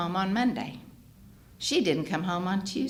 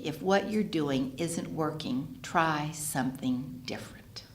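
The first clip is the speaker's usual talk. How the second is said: inner voice; 5 dB quieter, slower than usual. Retold or imitated. The little inner voice speaks.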